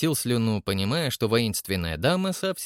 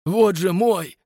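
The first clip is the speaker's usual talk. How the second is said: booming bass; 7 semitones higher, 5 dB louder, slower than usual. A narrator's reading. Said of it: "зычно пробасил Растопчин-старший".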